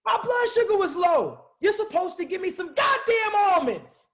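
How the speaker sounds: shouting in frustration at her; angry shout. Acted. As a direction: blow up at the publicist. Angry artist blames his publicist.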